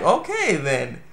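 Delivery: baffled and unsure; taken aback. Retold or imitated. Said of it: "I'm like".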